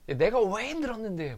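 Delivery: wife's wail, pitched high; high, anguished mock cry; imitating tearful yelling. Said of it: "고래고래 소리를 지르면서 막 울면서".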